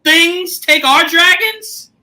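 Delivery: high, slow, laughing whine; a son whining to his mother; whiny son. Retold or imitated. Rhaenyra's son begging his mother, mock whine. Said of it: "He said".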